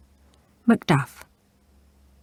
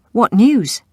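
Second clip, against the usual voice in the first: nervous; 6 semitones higher, 9 dB louder than usual. Acted. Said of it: "asked the king, nervously".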